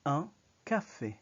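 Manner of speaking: Un café whispered, with a short nasal un; whispered demo. Shown as a demonstration. Teacher modeling French article, whispered pronunciation. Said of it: "So you say".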